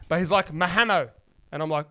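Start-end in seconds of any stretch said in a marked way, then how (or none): 0.5-1.1 "Mahamo" with an added vowel and no final d; botched name. Retold or imitated. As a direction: mangle Mahmoud into "ma-HA-mo". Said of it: "Completely fucked up my name".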